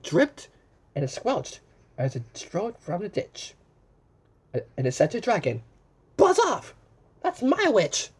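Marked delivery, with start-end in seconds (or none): 6.2-8.1 high, loud, bossy monster. Acted. Beast warning the dragon off, loud monster voice. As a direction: shoo the dragon off, hammed-up. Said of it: "terrible voice when it started to speak".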